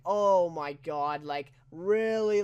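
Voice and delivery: slow, drawn-out oh my God; exasperated disbelief. Retold or imitated. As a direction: stretch it out in disbelief. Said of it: "I'm like".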